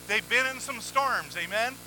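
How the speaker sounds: ordinary talk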